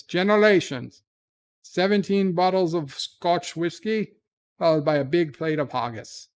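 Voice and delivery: lightly held mock Scottish accent, selling a family cure. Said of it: "not the accents".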